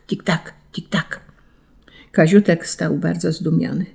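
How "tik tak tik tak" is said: hurried cross ticking. A narrator's reading. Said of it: "bo prędko, bardzo prędko, zdenerwowanym głosem".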